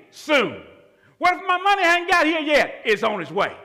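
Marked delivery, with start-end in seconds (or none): 1.2-2.8 doubting believer. Acted. Doubter's question voiced by preacher.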